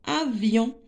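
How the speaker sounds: Avion in two parts, a-vion; teacher dividing Avion by syllable; split into syllables. Shown as a demonstration. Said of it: "on va découper les mots en syllabes".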